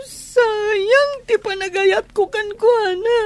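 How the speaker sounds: slow, crying lament; slow weeping regret; tearful lament. Acted. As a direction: mourn the wasted love through tears. Jilted woman weeping over Frank.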